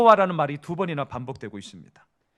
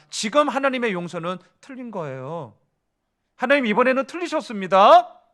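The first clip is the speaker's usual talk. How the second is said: higher, louder indignant protest to God; Jonah arguing; 3 semitones higher, 4 dB louder than usual. Acted. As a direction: argue with God that his mercy is wrong. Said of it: "다시 한번 바꿔볼게요". (요나가 하나님께 높고 크게 따지며 항의)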